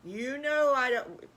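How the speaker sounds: a hint of a fussing aunt; fretful aunt. Petunia protests to Patty Pig.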